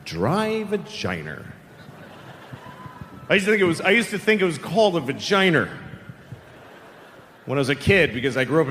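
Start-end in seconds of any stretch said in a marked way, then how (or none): 0.0-1.4 "vagina" stretched out, ending in -er; Boston pronunciation. Acted. Comic repeating the odd word, slow Boston "vagina" with an -er. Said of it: "they call the Boston accent". 5.0-5.7 "vagina" said as "va-JYE-ner"; Boston pronunciation. Shown as a demonstration. Comic recalling his childhood word, "vagina" with Boston -er. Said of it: "they call the Boston accent".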